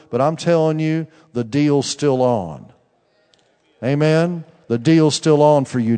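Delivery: fervent preacher; preaching. Acted. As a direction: declare it over him with conviction. Preaching prophecy to Daniel.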